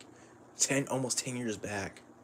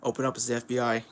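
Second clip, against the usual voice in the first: rushed and punchy; fast meme shout; faster than usual. Pretend. Agents bursting through the wall, fast urgent meme call. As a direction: bark it like a raid. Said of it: "quoting a meme".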